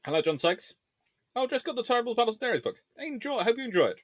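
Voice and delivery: usual speaking voice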